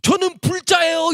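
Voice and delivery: high, slow, loud announcement; emphatic declaration. Retold or imitated. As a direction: declare it at full voice as the retort. Man's retort in acted quarrel. (또박또박 높고 크게 선언하기)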